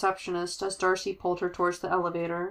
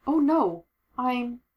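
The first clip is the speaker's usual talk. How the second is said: flustered; 5 semitones higher, 3 dB louder, much slower than usual. Acted. Flustered reply, mouth full.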